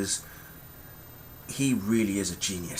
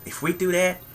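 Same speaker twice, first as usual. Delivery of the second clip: mock high girlish voice, much higher; mock girls' voice; 10 semitones higher, 5 dB louder than usual. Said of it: "But then they said".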